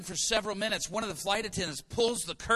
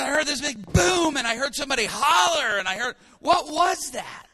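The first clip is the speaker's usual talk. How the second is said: high, loud excited retelling; loud agitated wife; loud alarmed recounting; 7 semitones higher, 9 dB louder than usual. Retold or imitated. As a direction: tell it all worked up. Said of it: "she said".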